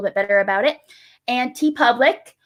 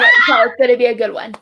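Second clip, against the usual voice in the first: loud; 6 dB louder, much faster than usual. Acted. Repeating the hype line.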